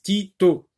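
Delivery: teacher sounding out "Tito" syllable by syllable; sounded-out syllables. Shown as a demonstration. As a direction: say "Tito" in two beats, each t clearly sounded. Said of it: "On l'entend deux fois".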